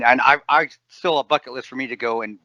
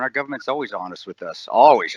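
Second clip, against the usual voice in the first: sarcastic; 2 semitones lower than usual. Real, not acted. Mocking government honesty.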